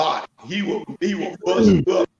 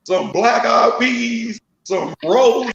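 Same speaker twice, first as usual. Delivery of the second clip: neighbor calling out; 3 semitones higher than usual. Retold or imitated. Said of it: "she said".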